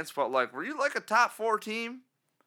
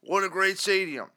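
higher, louder hammed-up old fan, shouting; old diehard caller; 6 semitones higher, 6 dB louder than usual. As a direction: bellow it like a crusty season-ticket fan on the radio. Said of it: "whatever the hell this guy wants to say".

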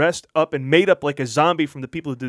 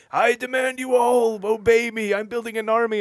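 booming arrogant alien overlord; 10 semitones higher, 4 dB louder than usual. Retold or imitated. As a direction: proclaim it like a conquering god. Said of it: "he's like".

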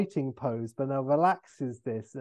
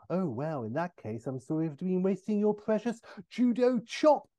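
faux casual; 6 semitones higher than usual. Austin to O'Brien before attacking, faux casual. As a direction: feign indifference, then spring the attack. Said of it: "faux casual".

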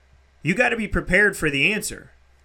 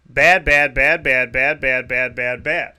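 emphatic bad; 4 semitones lower, 4 dB louder, slower than usual. Real, not acted. Reading her bad past list.

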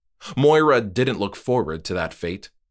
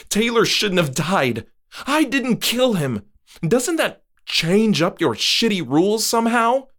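much higher and louder; angry Moira; 12 semitones higher, 4 dB louder than usual. Acted. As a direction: rage at his rules. Moira furious.

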